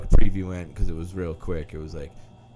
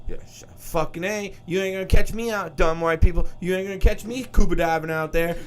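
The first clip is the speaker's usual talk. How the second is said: higher sassy black woman voice; black woman impression; 7 semitones higher than usual. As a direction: brag you'd never go in the water. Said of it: "here comes the black girl".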